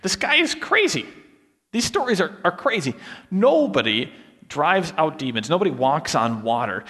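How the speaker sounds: mock disbelief at the stories; hammed-up doubter, scoffing; scoffing skeptic. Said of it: "you read these stories and you say".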